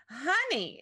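gushing mother, high and loud; exclaimed. A narrator's reading. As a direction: greet your child with delight. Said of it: "exclaimed her mother moments later".

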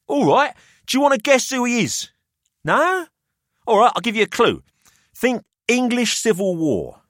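put-on a wry businessman weighing up the boys; Pelham's voice.

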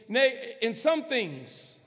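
slow, hesitant misquote of the verse; half-hearted version. Acted. Pastor voicing doubters in the congregation, slow and half-hearted. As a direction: say it without any conviction. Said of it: "some of y'all might be saying".

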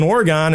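"Oregon" with its last syllable like "gone"; non-local Oregon. Real, not acted. Telling where he was, non-local Oregon. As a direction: say "Oregon" ending in an open "gahn". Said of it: "I always say Oregon".

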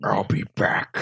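breathy whisper. Retold or imitated. Freddy leaving the fight, whispered. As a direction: whisper it like a movie line.

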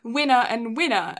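winner and winner in an English accent. Shown as a demonstration. Friend contrasting English accent with American for co-host, English accent. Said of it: "can't say that in an English accent".

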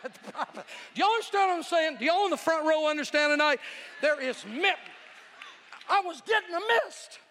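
high, loud and incredulous; comic hollering. Real, not acted. Preacher tells the front row about the mist, hollering.

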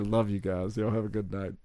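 soft, low bedtime sign-off; half-whispered good night to the listeners; pretend whisper. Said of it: "And I'll whisper".

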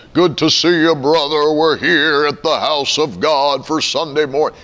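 hammed-up churchy hello; lightly put-on holy voice; mock pious greeting. Parody of a church greeting, lightly hammed holy voice. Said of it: "You don't talk like that".

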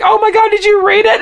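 high-pitched, hammed-up horror; comically panicked question; mock panic. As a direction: retell a mortified freak-out, voice way up. Acting out his horrified reaction.

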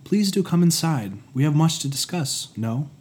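lightly teasing invitation; playful. Acted. Chiron welcoming Prometheus inside, playful. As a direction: invite him in with a wink. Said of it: "the voice spoke with playfulness".

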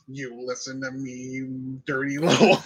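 slow low menacing villain; Green Goblin voice. Pretend. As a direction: threaten slowly, breaking into laughter. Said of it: "He just switches the Goblin voice".

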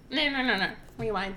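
rewind voice; mock tape rewinding sound. Shown as a demonstration. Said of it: "That's my rewind voice".

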